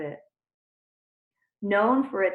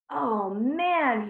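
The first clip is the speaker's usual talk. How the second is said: hooting; 5 semitones higher, 3 dB louder than usual. Acted. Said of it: "he hooted".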